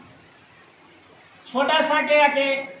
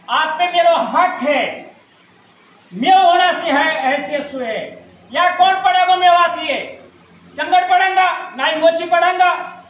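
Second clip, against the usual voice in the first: raised, insistent speech-making; impassioned oratory; 3 semitones higher, 4 dB louder than usual. Real, not acted. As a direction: drive each point home to the audience. (जोशीला भाषण)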